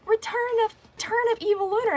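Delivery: high, announcer-style reveal of a villain's return; dramatic announcement. Retold or imitated. Fans hailing the villain's comeback, high dramatic announcement. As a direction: sell it like a movie trailer title. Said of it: "And then they're like".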